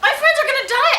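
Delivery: high, laughing through the words; laughing quote. Retold or imitated. Retelling his own joke to friends, laughing. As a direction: laugh it out, mock panic. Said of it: "I go".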